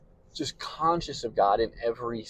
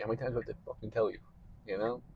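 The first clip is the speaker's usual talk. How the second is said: exasperated scolding; 5 dB quieter, much faster than usual. Retold or imitated. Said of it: "God will be like".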